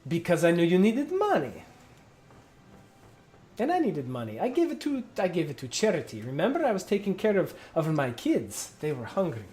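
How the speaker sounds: flustered captain. Acted. Sensu caught, excuses.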